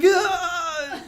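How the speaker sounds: awkward laughing me too; laughing agreement. Retold or imitated. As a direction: laugh it out up high. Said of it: "and I'm like".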